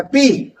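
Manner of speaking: "पी" with a popped burst of air from closed lips; teacher pops "पी" for the class; P sound demo. Shown as a demonstration. Teacher showing students the P sound, lips popping. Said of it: "पेट से pressure बनता है".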